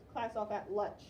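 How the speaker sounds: "lunch" read as "lutch"; mispronounced without N. Shown as a demonstration. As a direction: leave the N out of "lunch". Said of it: "if I did lunch, that would be".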